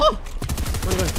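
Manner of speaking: surprised drawl. Real, not acted. Reacts after a gasp.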